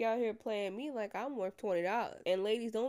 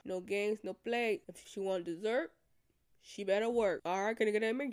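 mocking idiot men's pact; 4 dB louder than usual. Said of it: "come down and say".

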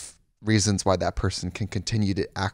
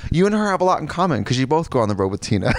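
laughing; 3 semitones higher than usual. Real, not acted. Teasing joke.

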